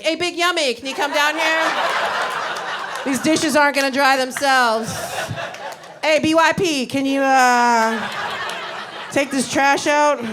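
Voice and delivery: calling the son down in a teasing mom voice; mock sweet mom call. Mom teasingly calling son to do chores, sing-song. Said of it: "I was like".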